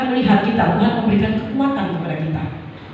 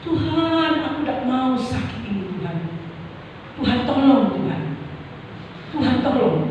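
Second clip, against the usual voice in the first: pleading prayer; 4 dB quieter than usual. Acted. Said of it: "Tiga kali dia berseru".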